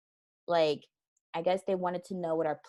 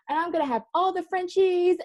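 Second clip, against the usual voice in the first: put-on gushing baby talk; 12 semitones higher, 5 dB louder than usual. Imitating herself gushing daily to her husband about the puppy, high and cooing. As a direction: coo over the coming puppy. Retold excited self.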